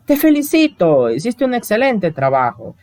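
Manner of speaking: high, bright-sounding praise, lifted at the start; congratulating. Acted. Teacher reading a praise example to students, high congratulating tone. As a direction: pitch the praise up like a proud teacher.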